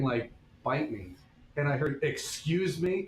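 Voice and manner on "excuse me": slow, high, drawn-out indignant excuse me; slow, high outraged Excuse me; indignant teacher. Retold or imitated. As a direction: stretch out Excuse me, pitched up and offended. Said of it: "she was standing right behind me".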